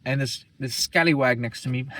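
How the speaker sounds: lightly put-on British accent; jokey, half-hearted British voice; mock British accent. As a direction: retell it with a hint of British. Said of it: "I look British, bro. Hey, bruv".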